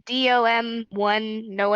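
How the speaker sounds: "D O M one Noe" read slowly letter by letter; spelling out a name. Real, not acted. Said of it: "I'm gonna try and pronounce your name".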